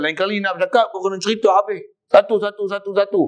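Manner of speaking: lightly voiced stern master; teacher's instruction. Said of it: "Tu guru tu nak tegur anak murid dia". (guru menegur murid dengan lembut)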